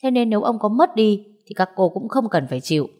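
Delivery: understated, measured sternness; calmly stern. Acted. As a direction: keep an even voice with a serious edge. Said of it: "thanh âm rất bình thường nhưng lại mang một vẻ nghiêm nghị".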